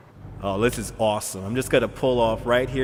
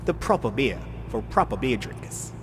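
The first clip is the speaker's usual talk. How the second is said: lightly put-on Australian accent. Streamer praising beer to viewers, slightly off Australian accent. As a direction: have a go at a mild Australian accent. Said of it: "That's more Australian, that accent".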